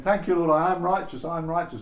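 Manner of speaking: joyful prayer. Acted. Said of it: "I'll pretend to be one of the wives here".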